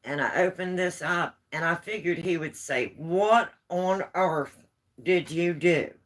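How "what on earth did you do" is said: mock shocked husband. Imagined husband's shocked reply.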